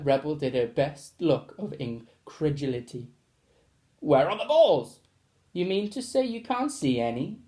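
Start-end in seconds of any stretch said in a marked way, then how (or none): 4.0-5.0 demanding teacher. Acted. Teacher demands to see balls. 5.5-7.4 mock innocent. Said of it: "mock innocently".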